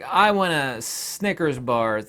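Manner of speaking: "I want a Snickers bar" drawn out slow and level; plain slow take of the line; slow request. Shown as a demonstration. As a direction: ask for it slowly, calmly. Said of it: "Say some of that".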